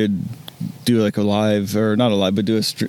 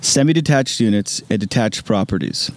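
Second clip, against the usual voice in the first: measured radio announcer read. Pretend. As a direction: read the bio like a radio host. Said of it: "that radio voice is just ridiculous".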